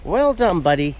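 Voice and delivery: high, pleased praise; dog praise. Real, not acted. Praising Mackie again, high and pleased. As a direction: pitch it up for the dog.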